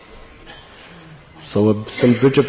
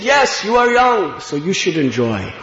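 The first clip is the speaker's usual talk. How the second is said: put-on old man teasing; 8 semitones higher than usual. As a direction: tease gently, pitched high and slowed.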